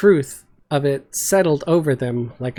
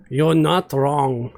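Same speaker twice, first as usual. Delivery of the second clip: soft Glunk; slower than usual. Acted. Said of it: "his voice softer than they have ever heard it".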